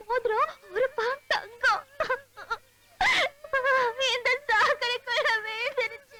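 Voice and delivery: fake sobbing. Girl fake-crying over the lost ring.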